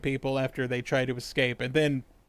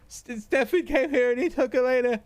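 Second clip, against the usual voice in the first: higher, whiny scared complaint; whiny cowering voice; 7 semitones higher than usual. Retold or imitated. Ben hiding between the beds, whining to Anna. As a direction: whine like a kid hiding under the bed. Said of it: "He's like".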